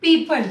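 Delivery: पीपल said "pee-pul", the O silent; teacher models पीपल as "pee-pul"; correct pronunciation. Shown as a demonstration. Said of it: "हम इसको बोलेंगे".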